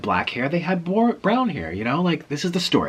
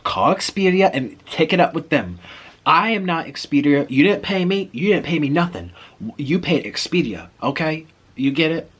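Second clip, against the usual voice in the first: imitating a rude clerk, pitched up; 5 semitones higher, 3 dB louder than usual. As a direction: lecture the customer rudely, raised voice. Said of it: "the way he was saying it was so rude".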